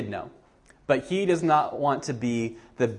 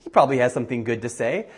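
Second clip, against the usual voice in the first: eager hope; much faster than usual. Retold or imitated. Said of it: "he's like".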